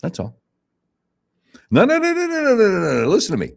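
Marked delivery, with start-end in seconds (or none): 1.7-3.5 emphatic no. Real, not acted. Excited protest before story.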